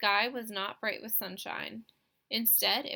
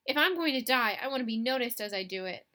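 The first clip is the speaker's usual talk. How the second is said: loud melodramatic declaration; 7 dB louder, faster than usual. Acted. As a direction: ham up a grand final wish. Dramatic last words.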